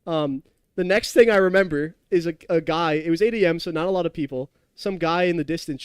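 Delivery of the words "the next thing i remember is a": normal talking voice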